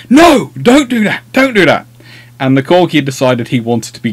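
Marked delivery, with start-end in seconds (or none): 0.1-1.8 retold alarmed scolding. Retelling a dog walk mishap, mock alarmed scolding. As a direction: imitate someone telling off a dog, pitched up. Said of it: "I kept hearing his voice going".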